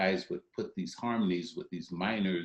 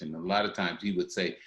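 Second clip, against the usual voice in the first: normal talking voice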